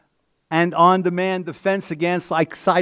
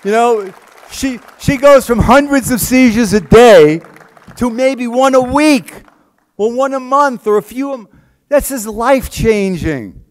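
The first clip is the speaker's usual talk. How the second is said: choked up; 4 semitones higher, 8 dB louder than usual. Real, not acted. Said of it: "I'm gonna start crying".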